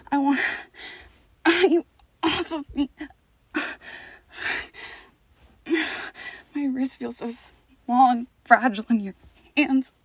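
playing helpless and desperate; pretend pleading.

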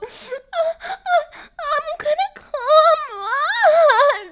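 high, breathy-sounding put-on girly voice, whimpering; fake e-girl voice. Gamer girl putting on her e-girl voice for her partner, high and whimpering. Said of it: "I wasn't doing the voice".

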